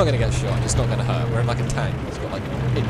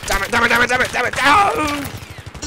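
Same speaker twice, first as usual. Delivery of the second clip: repeated angry cursing, louder; raging gamer; 10 semitones higher, 6 dB louder than usual. Real, not acted. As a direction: spit it out over and over. Keeps dying in game.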